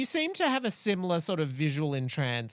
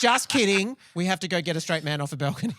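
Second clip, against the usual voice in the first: laughing; 4 dB louder than usual. Pretend. Pretend follow-up, laughing.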